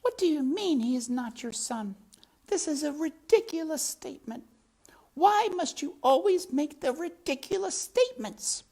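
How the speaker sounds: put-on very high, fast, indignant French accent. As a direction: scold him in a shrill French accent. Antoinette voiced in French accent.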